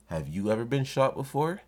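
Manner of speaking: put-on little kid asking back. Little kid turning the older guy's question back on him, innocently cheeky. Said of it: "I'm a little kid asking this older guy this question back".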